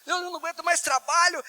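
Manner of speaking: queixa bem mais aguda, encenada; desabafo exasperado. Acted. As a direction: reclame do trabalho com a voz lá em cima. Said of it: "você muda a entonação de voz". (desabafo exasperado, tom agudo)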